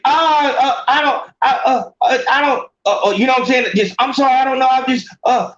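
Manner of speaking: high, flustered, tripping over words; stammering girlfriend. Retold or imitated. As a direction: fumble for an excuse. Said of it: "if she would say".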